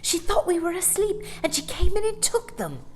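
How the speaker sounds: put-on awed little boy. A narrator's reading. Michael realising what happened.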